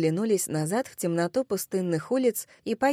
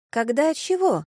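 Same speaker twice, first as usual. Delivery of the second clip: high, puzzled follow-up question; puzzled query; 7 semitones higher, 3 dB louder than usual. Acted. Long-haired girl questions unfinished sentence, puzzled. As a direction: ask back, not understanding. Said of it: "переспросила Длинновласка".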